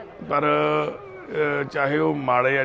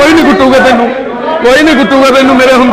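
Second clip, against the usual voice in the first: fast, higher and louder promise of protection; loud reassurance; 9 semitones higher, 15 dB louder, faster than usual. Real, not acted. Worker loudly reassures the young man that nobody will hit him. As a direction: reassure him at full volume over the noise.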